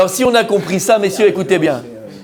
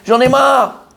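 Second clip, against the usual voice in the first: Haman sulking; 5 semitones higher than usual. Acted. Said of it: "Il dit comme ça".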